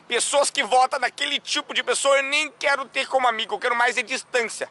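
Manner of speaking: indignação fingida, um pouco aguda; intolerante debochado. Acted. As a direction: imite alguém cheio de desdém. Mimics an intolerant voter, ironically. (desdém intolerante, encenado)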